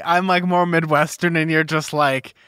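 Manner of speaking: ordinary talk, nothing marked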